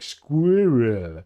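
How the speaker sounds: put-on "Squirrel." in a German accent, strained on the r; a German struggling with "Squirrel.". German guy tries English word, German accent. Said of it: "the German guy tries to pronounce it".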